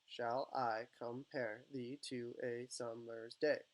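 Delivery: "Shall I compare thee to a summer's day" slowly, inflection shifting beat by beat; measured syllables in "Shall I compare thee to a summer's day", alternating stress. Shown as a demonstration. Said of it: "you change the inflection".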